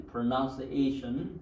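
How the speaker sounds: slow, syllable-by-syllable "Pronunciation"; model pronunciation. Shown as a demonstration. Teacher asks class to repeat, model pronunciation. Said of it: "Repeat after me".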